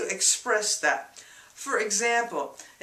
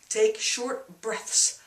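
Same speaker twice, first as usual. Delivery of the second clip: slow coaching; slower than usual. Retold or imitated. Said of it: "a helper there saying".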